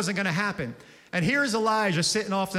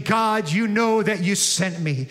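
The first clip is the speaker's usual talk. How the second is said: a touch louder, earnest praying voice; prayer; 4 dB louder than usual. Acted. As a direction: pray it with confidence.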